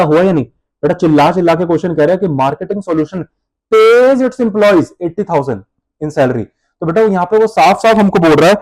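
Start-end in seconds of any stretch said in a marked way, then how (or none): 2.3-6.4 slow, word-by-word reading; slow dictation. Shown as a demonstration. Teacher reading the exam question to students, very slowly. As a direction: read the exam question out for copying.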